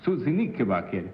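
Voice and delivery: Susie Knickerbocker in a laughing mock Italian accent, Knickerbocker ending in e. Shown as a demonstration. Host asks the actor to say the name in Italian. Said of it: "Say Susie Knickerbocker in Italian".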